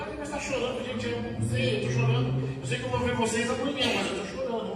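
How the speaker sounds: lightly imitated weepy outburst; retold tearfulness. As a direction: retell crying without really crying. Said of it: "eu comecei a chorar".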